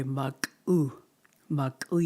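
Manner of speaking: "Maku, maku" said with clear vowels, second maku rising; correct pronunciation. Shown as a demonstration. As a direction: show the proper "maku". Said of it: "You just say".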